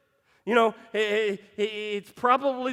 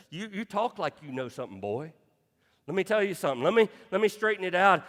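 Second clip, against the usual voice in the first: God scolding Job; 3 semitones lower, faster than usual. Retold or imitated. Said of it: "this is God talking".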